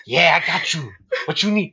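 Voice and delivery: lightly voiced sly hustler; a hint of cocky movie fox; Swiper. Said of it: "this guy's like".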